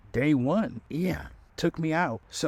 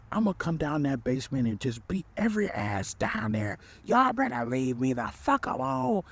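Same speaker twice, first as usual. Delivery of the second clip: put-on much higher angry threat at the kids; 3 semitones higher than usual.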